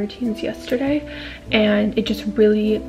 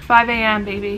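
hyped; 6 dB louder than usual. Real, not acted. Hyping up alarm time.

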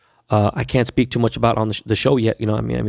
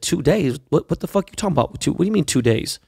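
incredulous; 5 semitones higher than usual. Retold or imitated. Retold disbelief at the doctor's answer.

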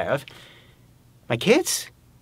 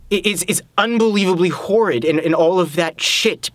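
louder, higher, stumbling into it; agitated outburst; 5 semitones higher, 4 dB louder than usual. Acted. Man admits to partner how horrid it is, agitated. Agitated admission amid tense argument.

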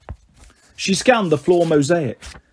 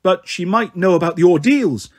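crying out. Acted. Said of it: "another cried".

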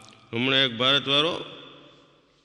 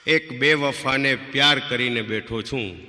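sad poem recital; slower than usual. Shown as a demonstration. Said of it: "એક આ દર્દભરી વાત લઉં".

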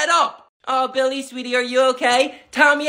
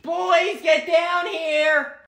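calling out; 4 semitones higher, much slower than usual. Acted. Calling the kids downstairs.

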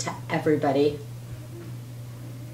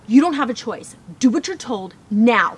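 bossy, louder order with "you" pressed down; harsh command; 4 semitones higher, 5 dB louder than usual. Acted. Parent bossing a child around, harsh louder command. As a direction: lay down the law, no room to argue. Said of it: "contrasting statements".

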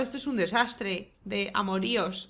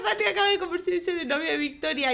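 laughing announcement; 7 semitones higher, faster than usual. Real, not acted.

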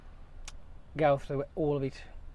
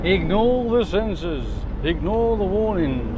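robot voice. Pretend. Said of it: "sounded a bit like the robot off Lost in Space".

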